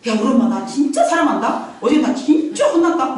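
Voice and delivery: put-on laughing, sarcastic child; a touch of mocking laughter; mock kid boasting. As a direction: ironic cheerful brag. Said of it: "막 얘들이 막 이럽니까?".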